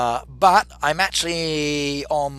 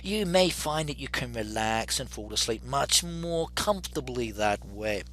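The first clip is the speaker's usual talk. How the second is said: soothing voice; 6 dB quieter than usual. Shown as a demonstration. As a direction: gently lull the listener to sleep. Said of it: "put my soothing voice on".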